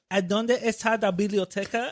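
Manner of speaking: bad Spanish accent. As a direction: sound like a beginner reading from a phrasebook. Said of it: "She's like".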